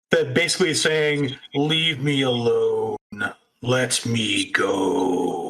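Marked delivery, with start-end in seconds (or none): 1.5-5.5 very deep, slow, stretched-out voice. Game master voicing someone heard over the comms amid screaming, deep and slow. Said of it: "this sort of deep, slow voice".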